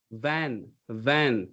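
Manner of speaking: VAN begun with a buzzing v, low pitched; clear v sound. Shown as a demonstration. Coach demonstrates the V for learner, clear v sound. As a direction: say VAN with lip contact on the v. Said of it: "something like with V".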